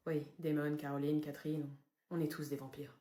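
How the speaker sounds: low, soft, grave murmur; solemn vampire. Acted. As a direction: confess gravely on behalf of all. Suite de l'aveu solennel.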